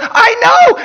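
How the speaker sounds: shrieked reply, extremely high and loud; hooting with laughter. Acted. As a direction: squeal it through acted hysterics. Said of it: "gasped and hooted".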